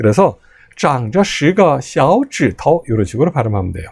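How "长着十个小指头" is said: xiao said with a rising second tone. Chinese lesson on two third tones in a row: rising tone on xiao. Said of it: "앞에 걸 제이성으로 올려주세요".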